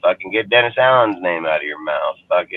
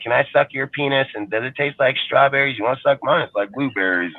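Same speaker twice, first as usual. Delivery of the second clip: mocking fans; 5 semitones higher than usual. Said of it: "They're like".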